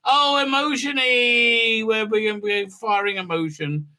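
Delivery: high, slow sing-song robot chant; mock bots. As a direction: drag out "Emotion-y" like goofy bots. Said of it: "the bots go".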